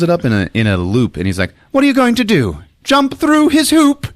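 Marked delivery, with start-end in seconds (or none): 1.7-4.1 high-pitched incredulous jeer; mock woman's taunt. Woman facing Paul's belt loop, mock taunt.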